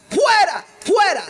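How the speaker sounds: high loud shout; crowd shouting. Retold or imitated. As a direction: yell it like a furious mob. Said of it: "Y ellos respondieron". (la multitud grita fuera, a voz en grito)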